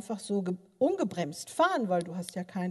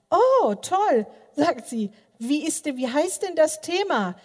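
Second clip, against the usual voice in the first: excited granddaughter; 6 semitones higher, 6 dB louder than usual. Retold or imitated.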